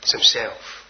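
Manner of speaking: low whisper, leaning on himself; hushed whisper to the congregation; whispered emphasis. Acted. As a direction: whisper it like a secret.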